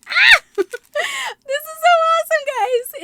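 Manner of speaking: very high, loud shriek into a crying laugh; ecstatic scream. Real, not acted. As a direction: scream with joy as it keeps coming. Another Hello Kitty item appears.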